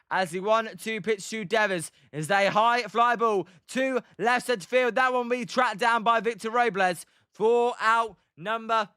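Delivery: emphatic end-of-inning baseball commentary; play-by-play. Acted. Calling the fly out and Giants' lead, play-by-play. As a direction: wrap up the inning for the viewers.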